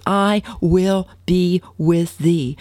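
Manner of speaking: slow, solemn promise voiced as God. Preacher voicing God's promise to the congregation, slow and solemn. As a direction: draw each word out like a divine vow.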